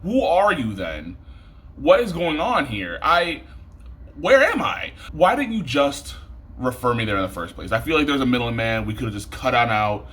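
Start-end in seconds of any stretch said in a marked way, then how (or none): 0.0-7.7 climbing higher, bewildered and indignant; shrill-ish pitch of who am I even talking to; exasperated disbelief. Real, not acted. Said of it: "I'm mad".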